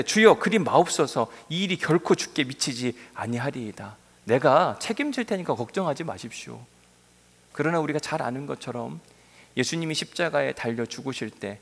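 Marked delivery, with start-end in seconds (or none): 0.0-6.6 Peter protesting. Retold or imitated. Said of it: "베드로가 예수를 붙들고 항변하여 이르되".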